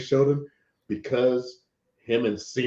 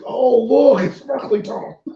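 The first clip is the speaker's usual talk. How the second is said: high, loud wide-eyed wonder; mock awe; 12 semitones higher, 8 dB louder, slower than usual. Friend mimics the character gawking at the portal, mock awe. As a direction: gush over it like a dazzled kid.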